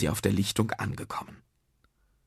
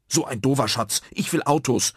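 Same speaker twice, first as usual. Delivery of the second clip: put-on sulky child's pout, slightly raised; 4 semitones higher, 4 dB louder than usual. Otto wanted cars as treasure, pouting. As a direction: complain with a pout. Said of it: "zog Otto einen Flunsch".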